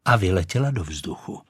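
ordinary delivery

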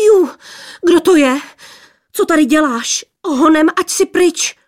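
put-on high, loud squealing girls; high-pitched scolding cries; angry squealing. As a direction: shriek him away, shrill and cross. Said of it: "Pištěli jedna přes druhou".

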